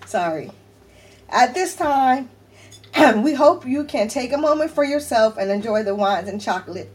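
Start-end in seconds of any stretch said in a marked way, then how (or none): 1.3-6.9 reading through welling tears; tearfully emotional. Real, not acted. Reading friends' card aloud to viewers, tearfully emotional. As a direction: push on through the message while fighting tears. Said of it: "I didn't mean to cry again".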